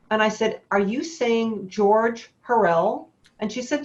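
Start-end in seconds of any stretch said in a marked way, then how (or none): 0.7-3.1 slow, incredulous question, George Hurrell said with a hard j; stunned disbelief. Retold or imitated. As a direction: ask it slowly, not believing your ears. Disbelief at hearing the name.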